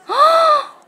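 high, sharp mock gasp; exaggerated gasp of delighted surprise; amazed gasp. Mother reacts to perfect score. (깜짝 놀라 헉 하는 소리)

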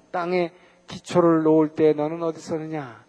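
normal talking voice

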